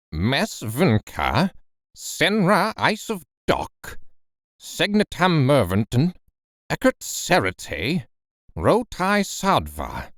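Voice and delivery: slow, solemn, each strange word weighed; profound gravity. Acted. Professor dictates the cipher to Axel, slow and grave. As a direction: dictate the letters like a sacred text. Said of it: "with profound gravity".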